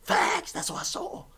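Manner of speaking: lightly mock the roommate. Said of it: "this nigga's like".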